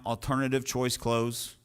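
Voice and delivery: "Alternative choice close" repeated slowly at normal pitch and level, word by word; slow dictation. Shown as a demonstration. Coach slowly dictating "Alternative choice close" so students can write it. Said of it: "write that down".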